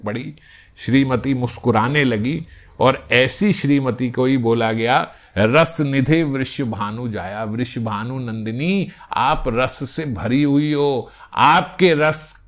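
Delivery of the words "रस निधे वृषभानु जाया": slow, chanted shloka; slow devotional recital; verse recitation. Acted. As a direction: intone the Sanskrit line slowly.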